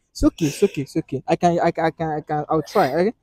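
quieting, reassuring promise; soothing reassurance. Real, not acted. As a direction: settle someone down gently. Soothing her as she calms.

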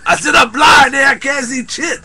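mock-frustrated yell at a deaf partner; exasperated shout. Shouting over misheard word.

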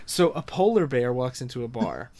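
joke-telling voice. Acted. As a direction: start the joke in a put-on teller's voice. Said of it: "oh, I'm not doing the voice".

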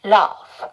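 "love" with the final V let out; released final V. Shown as a demonstration. Teacher showing how the last sound escapes, released V in "love". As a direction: say "love" as luh-v, the V escaping at the end. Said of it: "자, 발음 빠져야 돼요".

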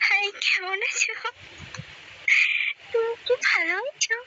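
high, sing-song coy greeting; sweet and put-on, like flirting; coy cutesy voice. Shown as a demonstration. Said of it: "এত ন্যাকামি শিখছেন কই থেকে".

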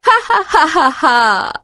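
high, put-on "ha-ha-ha" cackle; demonstrated laugh. Shown as a demonstration. Teacher shows children how to laugh after a joke, open ha-ha. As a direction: laugh in separate high bursts, falling at the end. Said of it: "સૂચના મુજબ હસતા જઈએ".

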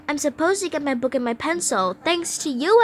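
high, hurried mock blaming; indignant complaint. Scolded girl blaming her buddy, indignant. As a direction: play it put out, pitch climbing on the blame.

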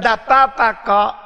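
a hint of a coaxing, sugary devil; sweet devil voice. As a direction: tempt lightly, like a sweet-talking devil. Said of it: "Ini suara setan yang manis".

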